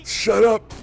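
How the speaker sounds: high, loud outburst; exasperated shout. Real, not acted. Player fed up with repeating game voices, exasperated shout.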